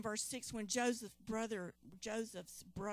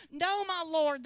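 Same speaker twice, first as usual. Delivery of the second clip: much higher and louder protest; exclaiming; 7 semitones higher, 11 dB louder than usual. Acted. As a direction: cry out a frightened denial. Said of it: "they exclaimed".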